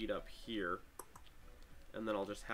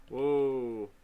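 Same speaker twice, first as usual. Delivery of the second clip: surprised; 4 semitones higher, 10 dB louder than usual. Real, not acted. Reacts to stack of cores.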